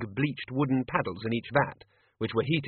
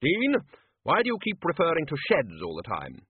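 bluff wizard voice; 5 semitones higher than usual. Acted. Ridcully voiced.

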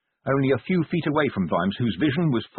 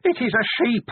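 much higher, tearful wail; high weeping; 12 semitones higher than usual. A narrator's reading. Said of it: "it wept".

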